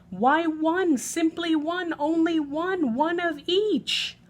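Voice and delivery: a fussy, incredulous lady, pitched high and loud; high complaining lady. Acted. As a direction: whine it like a fussy guest who can't believe it. Peggotty repeats her complaining speech.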